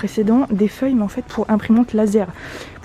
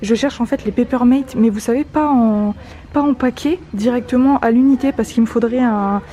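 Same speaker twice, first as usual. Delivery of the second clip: muffled behind a mask; speaking through a mask; through a face mask. Real, not acted. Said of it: "J'espère que vous m'entendez bien avec le masque".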